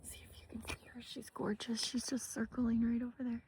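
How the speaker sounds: very soft, quick whisper so the bird isn't startled; hushed whisper. Real, not acted. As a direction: whisper fast, pointing out the hawk. Watching hawk, not to disturb.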